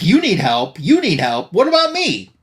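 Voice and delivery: high, mock-outraged squeal; a hammed-up whine of protest; indignant head. Severed head protests the heroine's needs, mock outraged.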